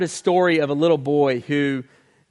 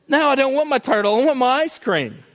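put-on much higher, louder whiny kid voice; be the five-year-old who only wants ice cream; greedy little boy; 9 semitones higher, 4 dB louder than usual. Preacher voicing the boy again.

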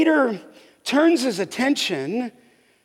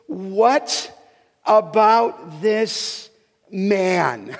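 slow, drawn-out questioning of Peter; Peter's question; 3 semitones lower, much slower than usual. Retold or imitated. Peter asking Jesus about John, slow and wondering. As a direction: let the question hang, unhurried. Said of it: "it's hard to get the tone inflection".

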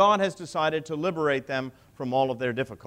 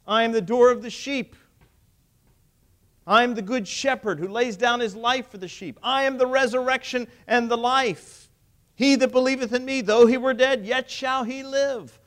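ringing proclamation; 5 semitones higher, 5 dB louder than usual. Acted. Preacher proclaims Jesus' words.

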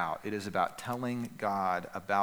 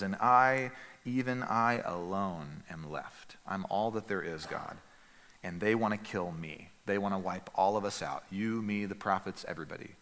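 despairing Elijah, soft; 2 semitones lower, 3 dB quieter than usual. Acted. Voicing Elijah's lonely despair.

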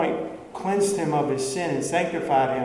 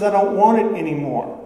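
louder, flatly rejecting it all; defiant refusal; 4 semitones higher, 6 dB louder than usual. Acted. Apostate on the bridge refusing his salvation, loud and defiant. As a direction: throw it away for good. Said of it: "He says".

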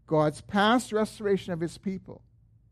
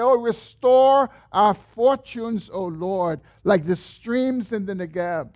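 shouting out a prayer; 2 semitones higher, 4 dB louder, slower than usual. Acted. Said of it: "he is shouting out".

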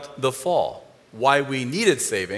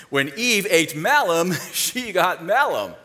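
laughing monks; 3 semitones higher, slower than usual. Retold or imitated. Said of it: "some monks were reading their Bible and said".

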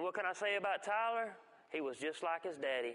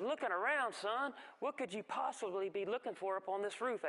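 incredulous, shaken mother; 4 semitones higher than usual. Retold or imitated. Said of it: "as she's shaking and trembling".

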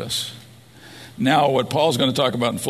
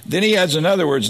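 raised voice; 5 semitones higher, 4 dB louder than usual. Acted. Sermon builds to next point.

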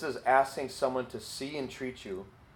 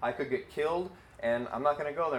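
higher, whiny refusal; petulant, pitched-up protest; Jonah refusing; 4 semitones higher than usual. Retold or imitated. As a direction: balk at going like a stubborn prophet. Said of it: "Jonah's like".

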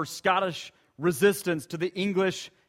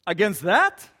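soldier's scared shout. Acted. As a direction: shout it, then back off. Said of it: "cries out and says".

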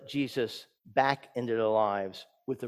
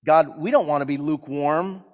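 earnest, projected congregational prayer; pleading prayer with strong emphasis; public prayer; 3 semitones higher, 6 dB louder than usual. Real, not acted. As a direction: lead the church in prayer, voice lifted.

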